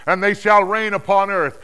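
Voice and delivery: high, loud declaimed anthem; triumphant, forceful acclamation; exultant hymn of praise. Acted. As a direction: proclaim it as a soaring song of worship. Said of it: "they were singing a new song".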